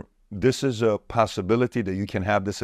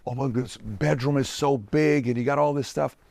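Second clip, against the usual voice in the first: higher-pitched imitation of a starstruck kid; awestruck kid; 5 semitones higher than usual. Former kid marveling at helicopters and mansions, awestruck imitation. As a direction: mimic a kid gushing over luxury. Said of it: "as kids, we used to be like".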